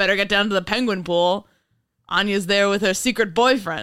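put-on, old-time 1930s newsman voice. Pretending to call the listener with news: old-timey 1930s reporter voice. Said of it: "Your old-timey 1930s reporter voice?".

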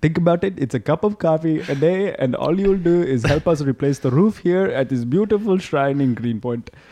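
put-on Indian accent. Retelling a church's appeal for donations, in a put-on Indian accent. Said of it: "Except it's like Indian accent".

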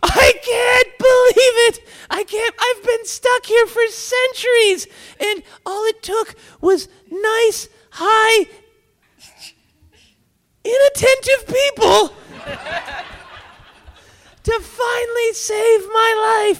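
screeching goblin scream, pitched very high. Voicing a goblin freed after centuries: goblin screaming. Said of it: "the goblin screams".

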